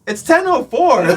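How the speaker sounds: high, loud retort; mock shouted protest. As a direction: call it back across the park, amused. Retold shouting back at heckler.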